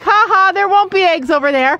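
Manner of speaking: high-pitched, spoken mocking "ha ha"; mock laughing. Nana retelling how she doubted Jacob's egg hunt, mock laughing. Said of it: "I'm laughing like".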